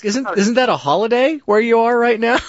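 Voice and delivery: a hint of the fake French Canadian minister; mock French Canadian official. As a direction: slip the accent back on, teasing. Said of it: "And I had to ask".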